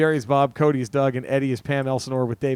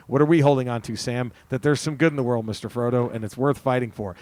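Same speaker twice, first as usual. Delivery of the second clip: earnest reading of Sam's speech; 2 semitones lower than usual. Acted. Reads out Sam's speech to Frodo.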